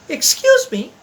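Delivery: put-on high, eager young voice; a polite small animal calling out; little elephant's voice. A narrator's reading. Elephant's child greets the log, high and eager. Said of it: "said the elephant's child".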